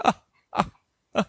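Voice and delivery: hammed-up breathy gasps of relief; put-on overwhelmed "oh" gasps; mock emotional gasps. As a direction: gasp as if overcome. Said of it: "they'll be very emotional".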